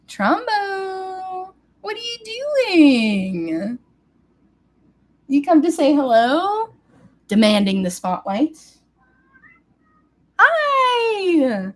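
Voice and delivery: high, loud cooing greeting. Real, not acted. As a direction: gush over the cat. Greeting the cat.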